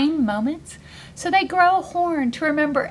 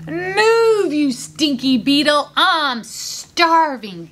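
snorting rhino; 3 semitones higher, much slower than usual. Acted.

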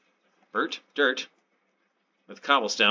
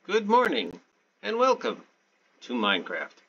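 over-the-top cheery show opener; goofy announcer voice; 2 semitones higher than usual. Pretend. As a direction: welcome the viewers like a hammy TV presenter. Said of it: "I don't know why I'm talking like this".

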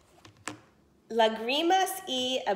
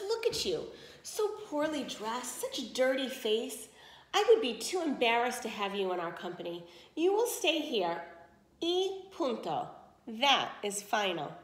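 haughty sneer. Acted. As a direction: look down your nose and refuse. Stepmother belittles and refuses Adelita.

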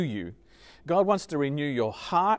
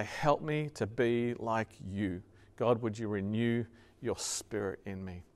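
hushed, lowered plea to God; calling on God; 5 semitones lower, 7 dB quieter than usual. Acted. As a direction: pray it quietly, voice dropped. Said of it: "where we call on God".

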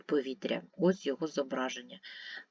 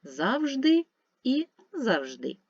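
Завжди first as ЗАВ-жди, then as зав-ЖДИ; two stress variants; 8 semitones higher, 3 dB louder, slower than usual. Shown as a demonstration. Teacher showing double stress to pupils: ЗАВ-жди і зав-ЖДИ. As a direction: say Завжди twice, stress moving to the end. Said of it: "мають подвійний наголос".

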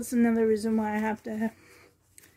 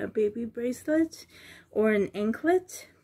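whispering. Real, not acted. Aside while planning.

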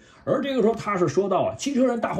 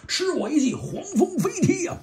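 much higher, a shouted attack name; battle cry; 11 semitones higher than usual. Acted. Bumblebee flying-kicks Soundwave, shouting a high battle cry. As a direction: yell it as you land the kick.

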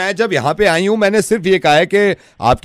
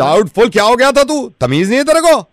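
scolding; 3 semitones higher than usual. Acted. Woman scolding caller.

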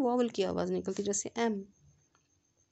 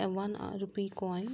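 slow dictation; much slower than usual. Shown as a demonstration. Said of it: "जैसे कि हमने यहाँ पे एग्जांपल दी है".

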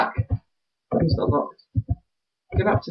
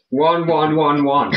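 slow passcode guess; slower than usual. Pretend.

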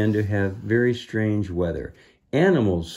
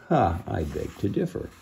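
wry aside; 4 dB quieter than usual. Real, not acted. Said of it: "says the reader".

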